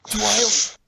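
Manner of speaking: loud, high cry of her name; urgent call. Acted. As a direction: call out to reach his sister. Brother calls to trapped sister.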